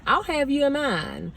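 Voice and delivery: lightly voiced old lady. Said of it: "little sweet old lady".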